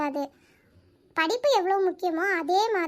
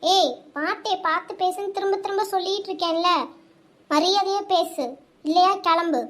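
firm reprimand, louder on the final order; angry warning; 3 dB louder than usual. Acted. Woman warns boyfriend to speak with respect, angry warning. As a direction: lay down an angry ultimatum. Acted lovers' quarrel, warning him.

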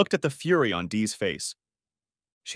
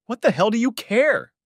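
wheezed; 12 semitones higher, 5 dB louder than usual. Acted. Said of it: "I wheezed".

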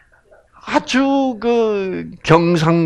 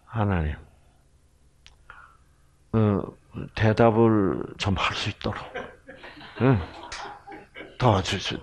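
humble prayer; 6 semitones lower, 9 dB quieter than usual. Retold or imitated. Acting out his own prayer.

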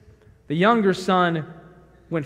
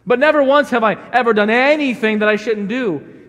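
put-on louder childish sulk; pouting elder son; 3 semitones higher, 6 dB louder than usual. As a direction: sulk like a little child outside. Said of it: "I'm outside pouting like a little child".

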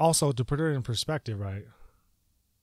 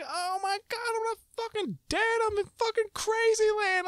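spiral faster into panic; rising panic. Retold or imitated. Fearing his wife calls police, a frantic high rant. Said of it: "I'm like".

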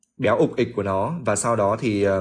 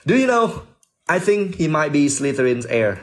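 voicing Ernie; 3 semitones higher than usual. Re-reading Ernie's line, higher.

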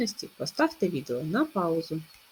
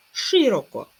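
Широко called louder, stress on О; check word stressed; 5 semitones higher, 7 dB louder, slower than usual. Shown as a demonstration. Teacher calling the check word louder. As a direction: punch the end of Широко. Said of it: "Наголошується И".

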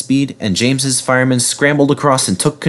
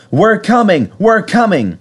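high, urgent rescue call; 10 semitones higher than usual. A narrator's reading. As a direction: call ahead to someone in trouble. Edward calling to runaway James.

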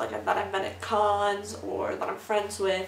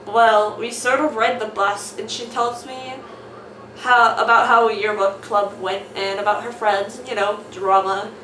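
loud, hammed-up character voices; switching accents clumsily; 6 dB louder than usual. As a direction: swap voices for each character. Reading comic aloud with character voices.

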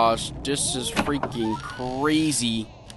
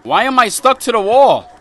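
louder, higher alarmed protest; panicked; 8 semitones higher, 9 dB louder than usual. Real, not acted. Gamer stuck to a wall, panicking. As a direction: plead in rising panic.

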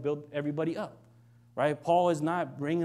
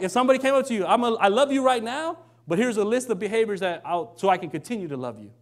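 heated, preaching; 4 semitones higher, 4 dB louder than usual. Real, not acted. Excited preaching.

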